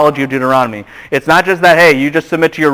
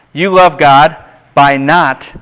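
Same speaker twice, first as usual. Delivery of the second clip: dictation pace; slower than usual. Shown as a demonstration. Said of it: "just write this down".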